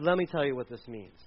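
a low, understated Peter; Peter speaking. Retold or imitated. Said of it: "and he said".

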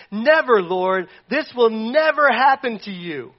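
firm, slow protest; Peter protesting. Retold or imitated. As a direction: insist he must never die. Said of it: "And he says".

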